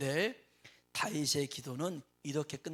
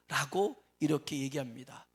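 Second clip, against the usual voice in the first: usual speaking voice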